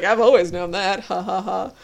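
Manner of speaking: breezy flippant take on it; flippant reading. Retold or imitated. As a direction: toss it off, teasing and light. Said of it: "he says it angrily".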